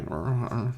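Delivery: imitated growl of a shivering dog; mock shivery dog noise. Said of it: "He's, like, shivering".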